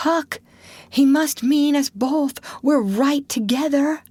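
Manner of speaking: put-on high trembling boyish voice; frightened resignation; scared. A narrator's reading. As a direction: Tom realising they're both doomed. Tom in fear.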